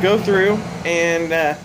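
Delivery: talking around pipe stem; pipe in mouth. Real, not acted. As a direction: lips clenched on pipe. Seen 2: Pipe held in hand until 3.3s, then stem in mouth.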